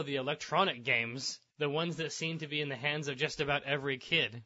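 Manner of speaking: measured TV reporter delivery; earnest newscast narration; news report read. Acted. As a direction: read it like a local news feature. Reads news article aloud.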